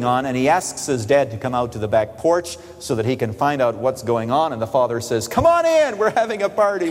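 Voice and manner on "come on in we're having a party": bright high call inviting son in; excited welcome. Acted. Father calling his son in, excited high welcome. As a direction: sing it out, come join the party.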